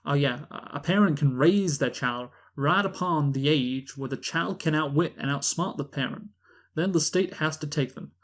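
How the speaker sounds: drawling Southern lawyer accent. Shown as a demonstration. Host plays a lawyer explaining the custody law, Southern accent. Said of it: "I'm gonna do a Southern accent".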